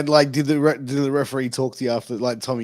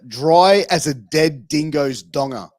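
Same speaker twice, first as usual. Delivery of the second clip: slow Aussie phrase; 8 dB louder, slower than usual. Shown as a demonstration. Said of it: "So this one is a phrase".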